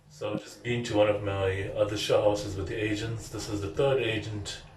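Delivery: muffled, speaking through a face mask; words dampened by a mask; talking through a mask. Real, not acted. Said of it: "it's difficult talking through a mask".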